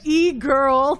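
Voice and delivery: drawn-out, slowed-down retelling; really slow imitation. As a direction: stretch out E-girl slowly as if quoting him. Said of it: "like, really slow".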